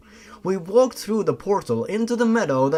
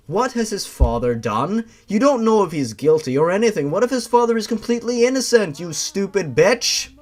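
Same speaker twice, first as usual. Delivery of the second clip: louder, rushing angry snarl; growling anger; 4 semitones higher, 5 dB louder than usual. Acted. The girl rounds on Toby in a growling rage. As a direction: snap at him, building to a sneer. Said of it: "I growled as I spoke".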